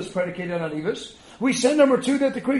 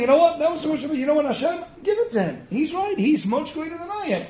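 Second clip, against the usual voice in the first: Aaron humbly yielding; 6 semitones higher than usual. Retold or imitated. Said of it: "So he's saying".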